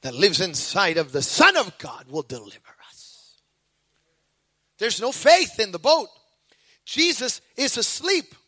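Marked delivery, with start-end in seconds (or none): 0.0-3.3 hushed and low, an intimate whisper; low unvoiced preacher's whisper. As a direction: drop to a breathy secret promise. Preacher drops to hushed close.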